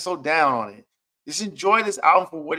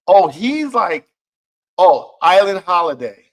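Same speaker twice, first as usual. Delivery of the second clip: excited reaction; 3 semitones higher, 9 dB louder than usual. Retold or imitated. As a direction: gush about the song like you just got it. Excited reaction on hearing song.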